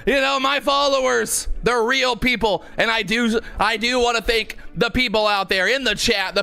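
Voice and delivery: mock acceptance speech.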